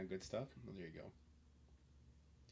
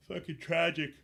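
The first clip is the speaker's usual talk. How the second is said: higher, louder exasperated verdict; fed-up complaint; disgusted; 6 semitones higher, 8 dB louder than usual. Real, not acted. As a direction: spit out the disgust. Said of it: "repeated escalation".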